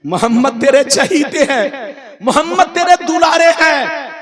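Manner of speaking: prayer lifting into high praise; fervent praise. Retold or imitated. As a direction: declare devotion with rising fervour. Preacher's prayer rises in fervour.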